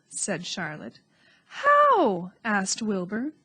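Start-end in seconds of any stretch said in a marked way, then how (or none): 1.5-2.3 eager question. A narrator's reading. Wilbur asks eagerly.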